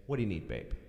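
low, soft, caring offer; quiet, attentive partner; gentle husband. Retold or imitated. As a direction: say it low and tender. Models a caring husband's line.

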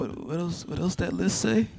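high, hushed question. Real, not acted. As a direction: ask it soft and high. Quiet teasing question.

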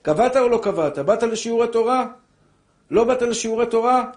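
a heavenly judge pressing you, loud; demanding judge in the world to come, loud and high; heavenly interrogation. Acted. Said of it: "שאלו אותך".

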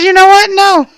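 high, tense mock indignation; retold indignant reply. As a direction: act out a firm, upset refusal. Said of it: "And I said".

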